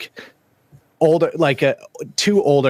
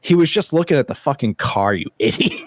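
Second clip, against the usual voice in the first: retelling the wife's line while laughing; mock scolding broken by laughter; laughing wife quote; 4 semitones higher than usual. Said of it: "She goes".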